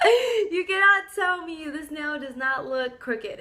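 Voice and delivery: retold disbelief, drawn out; indignant protest. Customer disputing a crooked nail with the technicians, indignant. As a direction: protest slowly, stretching the words in disbelief.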